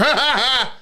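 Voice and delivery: high silly hee-haw cackle; mock heckler laugh. Mocking the heckler with a high goofy laugh.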